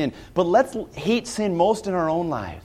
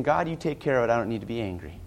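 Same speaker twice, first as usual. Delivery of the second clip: much lower and softer, letting the anger go; hushed prayer; 7 semitones lower, 8 dB quieter, faster than usual. Retold or imitated. A believer handing his wrong to God, hushed and low. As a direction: hand it over to God under your breath.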